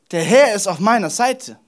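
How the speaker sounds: firm, emphatic restatement; full conviction. Acted. Preacher repeating David's declaration, firm conviction. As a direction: state it as settled truth. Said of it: "er spricht da voller Überzeugung".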